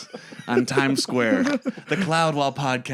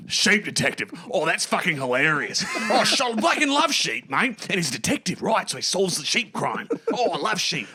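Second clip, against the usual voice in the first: Hugh Jackman impression; 4 semitones higher than usual. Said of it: "be like".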